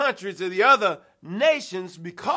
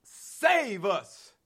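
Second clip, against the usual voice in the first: leading the prayer; slower than usual. Shown as a demonstration. Preacher leading the congregation in prayer, chanting. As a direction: chant it for the church to echo. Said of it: "somebody ought to say that with me".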